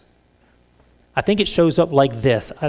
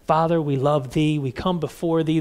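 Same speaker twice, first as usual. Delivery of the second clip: soft, mock-pious praying; lightly put-on prayer to impress listeners; affected public prayer; 5 dB quieter than usual. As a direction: pray as if you know what you're doing. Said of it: "I gotta sound like I know what I'm doing".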